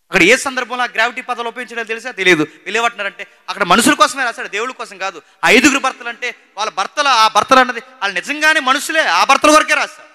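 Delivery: high, loud, emphatic sermon delivery; impassioned preaching. Real, not acted. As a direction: preach it at full force, driving each point. Preaches at full force.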